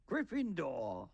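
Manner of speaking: high, long drawn-out verdict; slow theatrical cry; hat's shout. A narrator's reading. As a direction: stretch it into a high announcement. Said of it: "heard the hat shout the last word".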